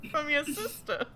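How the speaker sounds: put-on a mishmash Cockney-Australian accent; bad Cockney accent. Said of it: "Getting more Australian by the moment".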